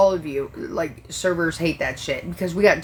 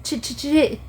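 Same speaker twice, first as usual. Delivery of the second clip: put-on stuttering kid; 8 semitones higher than usual. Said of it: "pop up on the other side and be like".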